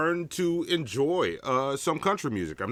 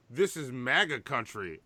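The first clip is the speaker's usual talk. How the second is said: put-on Nigerian accent; 3 semitones lower, 5 dB quieter than usual. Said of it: "I said in a Nigerian accent".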